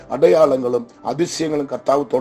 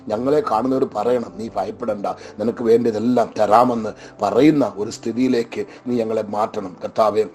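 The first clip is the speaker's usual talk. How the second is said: spoken prayer; 3 semitones lower than usual. Acted. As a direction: pray earnestly on behalf of the flock.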